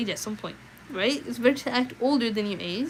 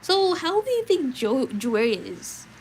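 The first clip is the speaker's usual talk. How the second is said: mock chatty guest; 4 semitones higher, 4 dB louder, slower than usual. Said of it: "and you'd be like".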